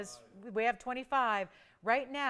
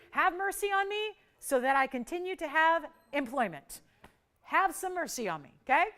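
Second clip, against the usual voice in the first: laughing plea; 4 semitones higher, 5 dB louder than usual. Real, not acted.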